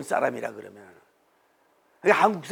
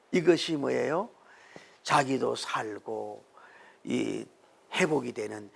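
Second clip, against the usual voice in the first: normal talking voice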